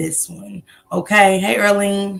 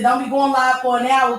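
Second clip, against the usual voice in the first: mock quote; 7 semitones higher than usual. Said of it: "They said".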